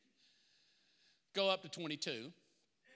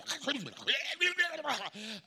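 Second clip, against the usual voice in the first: mock convulsing gurgle; 6 semitones higher than usual. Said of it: "that's the best I could do, the devil".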